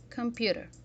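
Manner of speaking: "computer" with the stress on "pu"; "computer", second syllable stressed. Shown as a demonstration. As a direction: say "computer", leaning on the middle syllable. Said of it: "second syllable on the three is stress".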